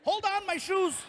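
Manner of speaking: high chirpy scale voice; a cute casino-style chirp; playful scale voice. Retold or imitated. Scale announcing weight, high playful voice. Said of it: "It was like".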